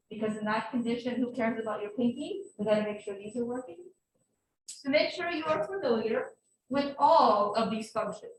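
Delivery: talking through a face mask; muffled behind a mask. Real, not acted. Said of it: "Can you hear me okay through the mask".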